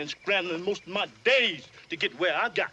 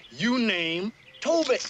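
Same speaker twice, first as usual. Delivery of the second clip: slow insistent demo; 4 semitones higher, slower than usual. Shown as a demonstration. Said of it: "Now you say".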